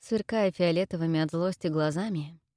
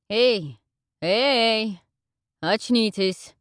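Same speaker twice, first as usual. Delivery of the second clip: loud urgent wake-up call; loud hey, wake up; 4 semitones higher, 6 dB louder, much slower than usual. Acted. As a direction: shout to rouse her. Stranger shakes her awake.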